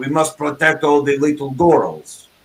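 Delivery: spoken with a Russian accent. Correcting the other speaker's try at the line, in a Russian accent. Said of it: "you didn't quite say it right. See, it's got to be".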